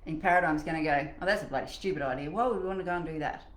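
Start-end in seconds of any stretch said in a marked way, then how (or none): 1.2-3.4 fast, dismissive objection; quick mock disdain; mock scoffing. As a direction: rattle it off like a scornful inner critic. Doubting paradigm voiced as scoffing.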